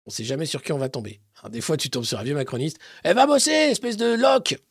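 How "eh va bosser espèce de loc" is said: angry yell. Retold or imitated. Old macronist yelling at youth.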